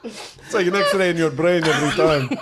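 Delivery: put-on giggly Moroccan accent; laughing in character. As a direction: break up laughing mid-line. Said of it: "you are a Moroccan".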